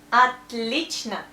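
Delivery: slow, loud "отлично" as at-LEECH-na; "отлично" with stress on the middle syllable, O's reduced; correct vowel reduction. Shown as a demonstration. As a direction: say "отлично" slowly, first O as A. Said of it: "we pronounce A because of stress".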